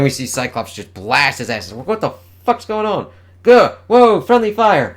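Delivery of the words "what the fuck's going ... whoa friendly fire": high, loud yelling, slowing at the end; panicked shouting. Acted. Caught in friendly fire, the hero yells in high panic. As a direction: yell as blasts fly past.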